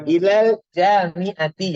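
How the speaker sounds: Ilal jami'ati read slowly, ending "ti"; slow model reading, final -i on jami'ati; bacaan kasrah. Shown as a demonstration. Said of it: "bacanya di bawah ini dah". (Ilal jami'ati dibaca pelan, berakhir kasrah)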